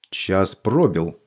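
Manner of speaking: ominous. Acted. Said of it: "сказала ведьма".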